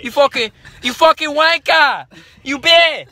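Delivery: high, loud Cockney insult; hammed-up angry Londoner; British accent. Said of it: "I sound like the guys from Kingsman".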